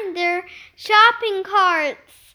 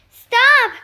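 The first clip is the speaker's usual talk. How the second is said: sharp shout; 8 semitones higher, 7 dB louder than usual. A narrator's reading. Nick stops the pig.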